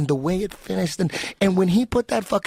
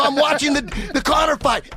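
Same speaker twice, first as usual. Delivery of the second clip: shouting; 9 semitones higher than usual. Retold or imitated. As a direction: shout the answer back. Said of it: "I go".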